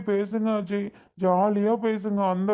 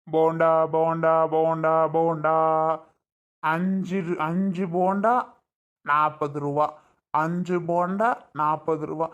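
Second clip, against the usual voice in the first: hawker's call; 4 semitones lower than usual. Acted. Vendor calling to passengers to sell bondas, sing-song hawking call. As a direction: call out the snacks like a street seller.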